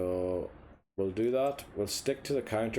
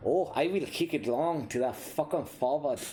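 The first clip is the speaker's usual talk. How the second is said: mock Austrian accent, pitched up, ridiculing the player; 5 semitones higher than usual. Mocking his striker's decision in a mock Austrian accent. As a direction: sneer in a put-on Austrian accent. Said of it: "he would have said it in a different accent".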